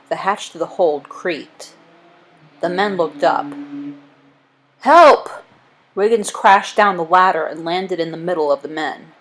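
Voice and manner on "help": high, loud yelp for help; cry for help. Acted. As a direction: call out in sudden panic. Cry for help in acted chase.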